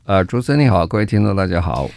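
muffled behind a face mask; through a face mask. Real, not acted. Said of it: "主持人跟董事长的声音听起来有点闷闷的".

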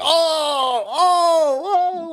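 very high, drawn-out "oh"s; mock horrified reaction. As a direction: imitate judges recoiling at a shock reveal. Judges react once bag comes off.

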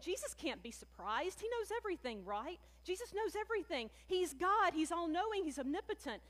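imitating what we might think, lightly pushy; preacher playing the skeptic, lightly voiced; mock know-it-all. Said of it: "we may think".

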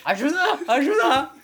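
high shouted Spanish cry; hammed-up Spanish help cry; Latino accent. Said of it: "do a Latino accent".

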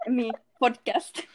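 hushed whisper to a parent. Pretend. Girl caught recording at night by mom, whispering. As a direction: whisper it so mom won't wake.

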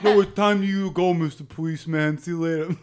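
put-on Jamaican movie-character voice; Jamaican accent. Podcaster voicing the alley Jamaican to a policeman, Jamaican accent. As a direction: send them off in a hammed-up Jamaican accent. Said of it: "you could do the Jamaican in the alley".

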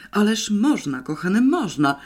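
gushing, touched reassurance; tender exclamation. A narrator's reading. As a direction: cry out with heartfelt affection. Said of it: "zawołał z rozczuleniem sekretarz redakcji".

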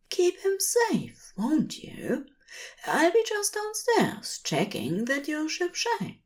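an angel quietly asking the bookshop to guard the sleeper; whispered Aziraphale. A narrator's reading. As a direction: hush it to the walls so he won't wake. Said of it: "he whispered".

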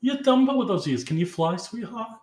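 high-pitched mock catty Jersey mom; imitated Jersey mom. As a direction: imitate a taunting salon gossip. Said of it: "the Jersey mom starts, like, shit talking".

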